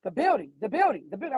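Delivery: retold yell. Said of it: "she was yelling".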